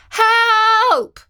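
loud, high cry from the chimney again; calling for help. Acted. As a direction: shout it up high, stuck in the heat. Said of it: "called out Katie again".

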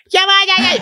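high-pitched mock singer's screech; imitating a singer's screaming. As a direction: wail wildly like an avant-garde vocalist. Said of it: "She just starts screaming into the mic".

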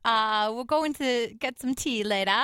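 amateur British accent on request. Shown as a demonstration. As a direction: have a reluctant go at a British accent. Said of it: "do a British accent".

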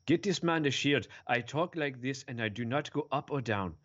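lightly voiced, monotone mock superhero, trailing off at the end; a hint of a stiff, emotionless hero droning on; mocking Black Panther. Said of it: "I should do my Black Panther impression".

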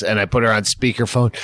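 usual speaking voice

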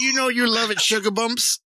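high cooing tease; high playful coo; teasing girlfriend. Retold or imitated. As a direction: coo the pet name playfully. Friend joins voicing girlfriend.

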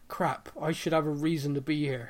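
panicked mock fluster, building to a loud laughing greeting; flustered Ezekiel. Ezekiel caught out at the dock, mock panicked laughing.

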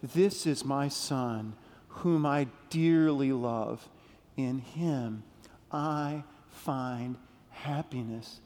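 low, slow, softening tender voice; tender God. Retold or imitated. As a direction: say it as a loving father would. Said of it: "God said".

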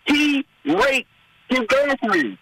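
a hint of a fed-up voter; outraged voter. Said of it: "those voters who are like".

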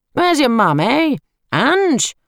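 loud, high yell across the hall; smarmy uncle yelling for his sister; yelling her name. Acted. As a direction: shout it out to the far end of the room. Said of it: "He yells her name across the empty hall".

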